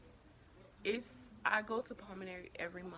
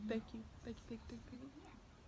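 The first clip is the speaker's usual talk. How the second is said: fading thanks; 3 semitones higher, 8 dB quieter than usual. Real, not acted.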